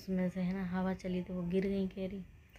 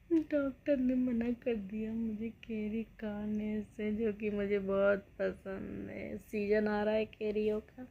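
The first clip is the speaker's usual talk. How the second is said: mock weepy lament, drawn out slowly; hammed-up whimpering over lost mangoes; fake crying. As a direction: pretend sob story told slowly. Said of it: "रोने की acting कर रही हूँ".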